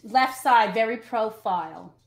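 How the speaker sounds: half-hearted Broadway diva; Carol Channing voice. Retold or imitated. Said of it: "I'm doing her voice right now".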